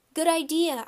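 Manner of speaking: loud, high call. A narrator's reading. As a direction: call it across the playground. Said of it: "I called".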